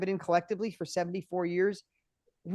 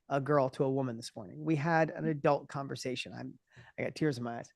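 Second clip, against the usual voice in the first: softer, lower, choked-up voice; holding back tears; 4 semitones lower, 5 dB quieter than usual. Real, not acted. Father tells of breakfast with his grown daughter, choked up. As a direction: speak through welling tears. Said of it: "I'm gonna cry".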